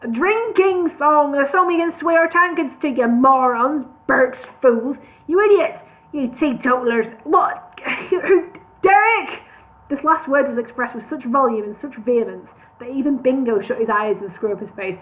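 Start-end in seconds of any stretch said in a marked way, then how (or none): 0.0-9.3 angry tirade. Acted. Al raging at the dwarfs.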